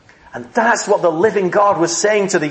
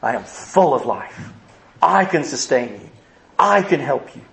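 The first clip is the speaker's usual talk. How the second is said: voice of God; 4 semitones lower than usual. Retold or imitated. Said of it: "God says".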